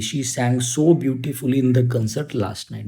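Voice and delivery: slow, deliberate model sentence; teacher dictating the sentence slowly; slow dictation. Shown as a demonstration. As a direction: read it out word by word. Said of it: "तो beautifully".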